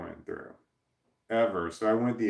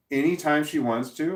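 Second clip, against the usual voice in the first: a higher, louder, indignant question; imitating angry ex; 5 semitones higher, 4 dB louder than usual. Ex-wife on the phone, demanding about cooking, mock indignant. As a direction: mimic her outrage mildly. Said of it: "She was so mad".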